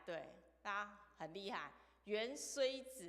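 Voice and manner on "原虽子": 原虽子 drawn out slowly, syllable by syllable; slow word demonstration. Shown as a demonstration. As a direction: say 原虽子 slowly for others to repeat. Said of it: "请跟我一起念一遍". (慢速领读“原虽子”，逐字拉长)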